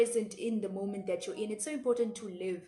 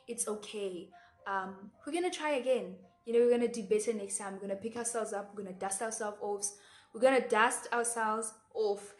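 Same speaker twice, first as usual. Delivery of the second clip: reassuring a friend. Retold or imitated. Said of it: "be gentle to that friend and be like".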